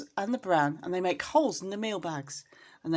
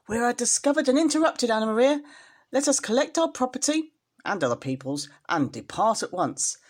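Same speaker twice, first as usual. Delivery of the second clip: alarmed rat; 3 dB louder than usual. Acted. Samuel Whiskers urges flight.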